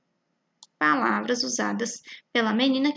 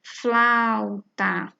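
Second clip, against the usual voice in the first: slow demo word; 3 dB louder than usual. Shown as a demonstration. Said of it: "como na palavra flauta".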